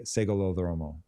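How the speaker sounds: Segolodromo in a rough Greek try; Greek phrase. Shown as a demonstration. Host trying a Greek saying, attempting the accent. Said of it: "you can't imagine how bad my accent is".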